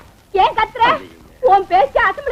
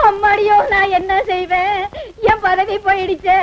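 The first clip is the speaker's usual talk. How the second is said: wailing lament. Acted. Wife wails over lost post.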